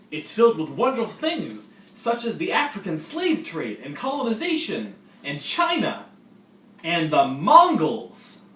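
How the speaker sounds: high, loud hammed-up upbeat senior; high, loud mock-cheerful older student; cheery senior. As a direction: greet the freshman like an overeager host. Skit senior lecturing kid.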